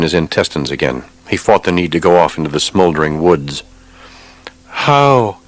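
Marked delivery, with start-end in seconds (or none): 4.7-5.4 anguished question. A narrator's reading. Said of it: "Anton asked himself".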